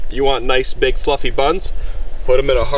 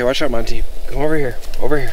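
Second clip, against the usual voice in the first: calling a dog. Real, not acted. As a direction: call the dog over, firm. Calling dog Monty away.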